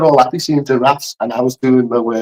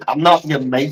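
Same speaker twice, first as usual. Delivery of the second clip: Anthony Hopkins impression; 2 semitones lower, 4 dB quieter than usual. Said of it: "you sound like Anthony Hopkins".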